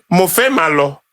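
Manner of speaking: "Mo fẹ́ máa lọ" in an Ijebu accent; Ijebu Yoruba. Shown as a demonstration. Ijebu man showing how he speaks Yoruba, Ijebu accent. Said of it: "I am an Ijebu man".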